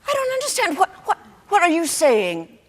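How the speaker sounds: high, stammering disbelief; bewildered dismay. Acted. Mother reeling at daughter's confession, high and bewildered. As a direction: trip over repeated words in confusion.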